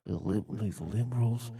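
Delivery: put-on Brooklyn accent. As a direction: rant like a Brooklyn subway guy. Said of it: "Brooklyn auto-tune guy".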